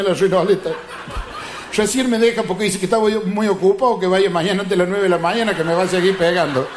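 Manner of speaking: despairing friend. Acted. Depressed man complaining to his friend, mock despair. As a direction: moan like everything's gone wrong.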